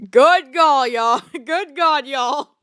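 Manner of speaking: loud laughing exclamation; laughing disbelief. Real, not acted.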